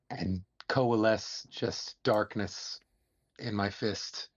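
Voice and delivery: gravelly wizard voice. Acted. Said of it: "I kinda like that gravelly voice for your character".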